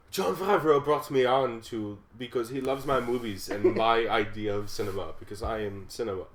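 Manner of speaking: loosely faked Bavarian director's voice; measured, self-important auteur, lightly accented; Werner Herzog. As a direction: attempt a grand German filmmaker's pronouncement. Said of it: "Werner Herzog's voice".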